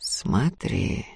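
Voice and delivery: soft, low, almost whispered warning; threatening. A narrator's reading. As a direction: warn her menacingly under your breath. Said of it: "с угрозой предупредила Устья".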